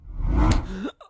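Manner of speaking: loud unvoiced gasp of shock; sharp gasp. Patient struck by sudden hunger, sharp shocked gasp. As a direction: gasp as if hit in the stomach. Miracle hunger hits Charlie.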